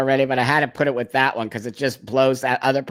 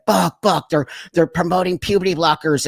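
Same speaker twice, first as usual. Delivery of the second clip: alarmed caller; 4 semitones higher, 4 dB louder than usual. Retold or imitated. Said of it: "somebody called me and they said".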